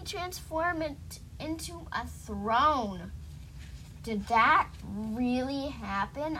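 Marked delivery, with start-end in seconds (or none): 4.0-6.4 lightly amazed question; mild gasp of surprise. Acted. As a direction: ask it with a touch of disbelief. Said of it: "I gasped".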